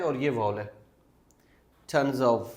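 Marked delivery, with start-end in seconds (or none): 1.9-2.5 tons of joined as "tonzov"; linked tons of. Shown as a demonstration. Teacher showing consonant-vowel linking in tons of. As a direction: run tons into of with the z. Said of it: "इस of को हम वी पढ़ेंगे".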